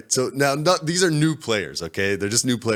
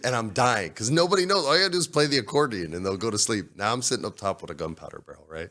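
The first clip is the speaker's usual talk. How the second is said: normal talking voice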